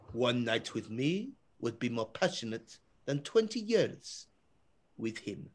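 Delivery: low, slow, soft seducer's voice; mock seductive. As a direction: tempt her slowly and quietly. European man telepathically tempts the wives.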